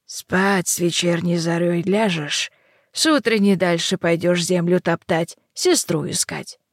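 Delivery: slow witchy instructions; old hag. Acted. Yaga speaks to heroine.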